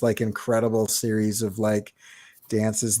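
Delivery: ordinary talk, nothing marked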